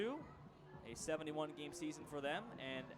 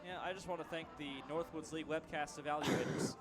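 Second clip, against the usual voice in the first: sarcastic. Acted. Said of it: "That's obviously sarcasm".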